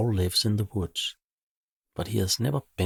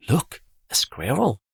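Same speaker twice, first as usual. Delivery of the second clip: higher, louder excited call; excited yell; 6 semitones higher, 4 dB louder than usual. Acted. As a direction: point and call out. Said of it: "yells the girl".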